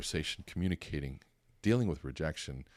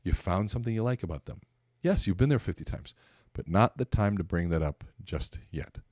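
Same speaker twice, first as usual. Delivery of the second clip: high, bright-eyed curiosity, much higher pitch; eager interest; 5 semitones higher, 4 dB louder than usual. Retold or imitated. Listener showing delight at a stranger's Hawaii mention, eager and high. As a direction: play the keen listener, all wide-eyed wonder.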